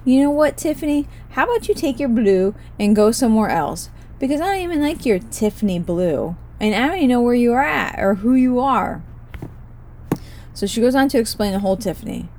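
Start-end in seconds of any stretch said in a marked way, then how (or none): 0.0-9.0 raised, higher-pitched mock scolding; indignant mock rant; mock telling off. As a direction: tell the paint lady to get lost, half joking. Ranting at imagined Tiffany.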